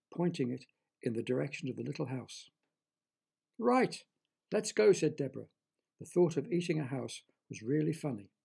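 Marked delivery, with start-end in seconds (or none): 3.6-4.9 higher, louder and eager; brisk, keen call to set off. A narrator's reading. Deborah to Derek, setting off for the house, eager.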